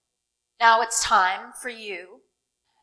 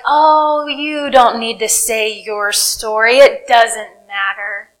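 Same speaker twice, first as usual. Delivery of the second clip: lightly voiced dismissive inner doubter, louder; another little voice; 5 dB louder, slower than usual. Preacher voicing the doubt against telling your story, lightly dismissive. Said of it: "another little voice that's like".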